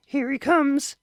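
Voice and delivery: hushed warning whisper. A narrator's reading. Wife whispers to husband that son arrives. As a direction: whisper it quickly. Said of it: "unvoiced whisper".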